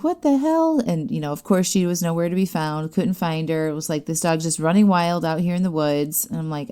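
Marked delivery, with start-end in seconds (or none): 0.0-0.8 much higher-pitched baffled outburst; high-pitched, incredulous mock reaction; retold disbelief. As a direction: act out a startled double take. Retold shock at dog running past.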